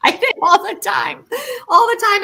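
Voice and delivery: high, loud and eager; emphatic yes. Real, not acted. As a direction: jump in with total agreement.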